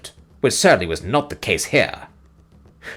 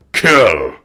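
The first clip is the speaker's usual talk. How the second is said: hollow echo; 6 dB louder than usual. Acted. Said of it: "re-echoed Scragga, with a hollow chuckle".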